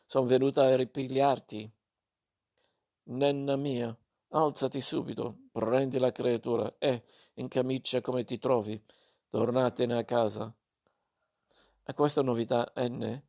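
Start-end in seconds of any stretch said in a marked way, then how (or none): 0.0-10.5 fierce resolve. Acted. Mother ordering her daughter home, fiercely resolute. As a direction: settle it, no discussion. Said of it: "annunciò con risolutezza selvaggia".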